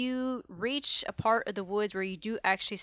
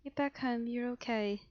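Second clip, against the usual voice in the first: soft, soothing reassurance; tender, lowered voice; gentle comforting; 3 semitones higher, 7 dB quieter than usual. Acted. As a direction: comfort them gently, a little softer. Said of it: "rubbing your back very gently".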